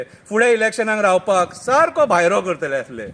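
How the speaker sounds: full-voiced line with falling end; declaimed verse. Calangute politician fears being thrown out, declaimed. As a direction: declaim it out to the audience. First take of repeated verse.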